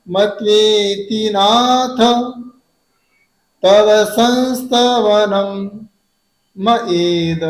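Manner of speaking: मत्वेति नाथ, pause, तव संस्तवनम, pause, मयेद, slow; pauses in three places. Shown as a demonstration. Teacher reciting with three clear stops. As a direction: break the line into three slow parts. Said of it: "तीन जगह आपको stop देना है".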